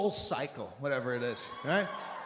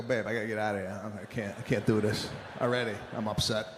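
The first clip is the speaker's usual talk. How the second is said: mock whiny; 8 semitones lower, faster than usual. Telling wife he wants to leave.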